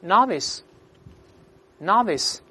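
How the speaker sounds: slow, deliberate word drill; read-aloud model. Shown as a demonstration. Teacher leading students through a new word, read-aloud model. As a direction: pronounce it slowly for repeating, pausing between takes. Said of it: "我们读一下".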